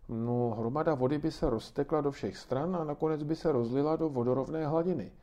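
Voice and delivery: put-on child's voice. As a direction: answer like a keen young boy. Boy Lukáš answering grandma.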